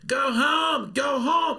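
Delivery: high, loud mock heckling; imitated scream. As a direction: shout it like an angry woman at a protest. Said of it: "this Irish lady starts screaming at me".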